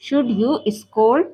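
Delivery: each word said very slowly and apart; slow dictation. Shown as a demonstration. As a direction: spell it out slowly for students. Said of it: "और डांटने को क्या कहते हैं?". (बहुत धीरे, शब्द-शब्द अलग करके)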